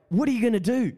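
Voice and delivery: curious friends. Retold or imitated. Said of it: "They were like".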